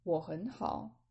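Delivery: slow, careful Mandarin dialogue for learners; slow model reading. Shown as a demonstration. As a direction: read it slowly so students can follow. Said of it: "I'm gonna repeat B".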